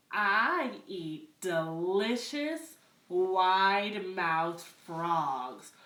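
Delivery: slow, menacing alligator. Acted. Alligator tells the frog what he eats, slow menacing voice. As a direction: savour each word like a hungry predator.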